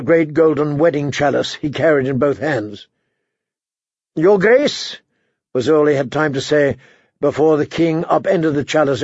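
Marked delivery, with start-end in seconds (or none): 4.1-5.0 high, rising query; pitched-up, questioning exclamation; startled address. A narrator's reading. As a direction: greet the king in alarmed surprise. Startled as king looms over him.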